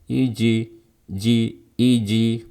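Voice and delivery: "Iji" ending in a clear, full i; full kasroh ending. Shown as a demonstration. Teacher contrasting with the tinted bounce, full-vowel "iji". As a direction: sound the final i of "iji" fully. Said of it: "bukan kasroh memang, seperti ini".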